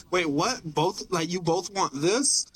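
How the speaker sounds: lightly acted baffled order-taker; mild mock confusion, slowing at the end; confused employee. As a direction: play a slightly puzzled pizza worker. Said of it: "imagine being an employee".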